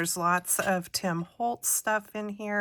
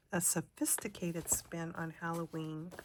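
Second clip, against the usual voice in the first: whispering; 7 dB quieter than usual. Real, not acted. Whispered while reading a card.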